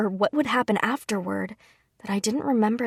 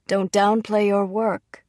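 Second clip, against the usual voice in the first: slow, firm, louder rebuke; chiding father; 4 dB louder, slower than usual. Acted. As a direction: scold her modesty gently but firmly. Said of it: "he chided".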